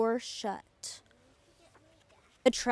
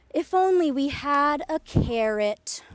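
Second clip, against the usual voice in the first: sighing wish; 3 semitones higher, 5 dB louder than usual. A narrator's reading. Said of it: "he paused and sighed".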